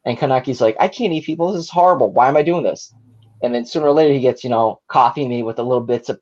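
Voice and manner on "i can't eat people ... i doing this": higher-pitched mock distress; mildly acted dismay, pitched up; horrified protest. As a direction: imitate a character recoiling in horror. Acting out horrified Kaneki refusing to eat.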